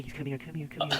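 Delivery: mocking, needy plea; mock begging. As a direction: mimic someone begging them over. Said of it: "he's, like, begging for them".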